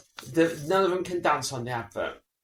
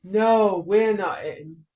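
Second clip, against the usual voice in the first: advert couple; 5 semitones higher, 6 dB louder, much slower than usual. Retold or imitated. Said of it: "And they go".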